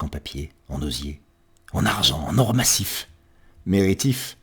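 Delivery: dramatic verse reading, restrained then surging; poem recitation. Acted. Poet recounting a chase after happiness, dramatic poetic recitation.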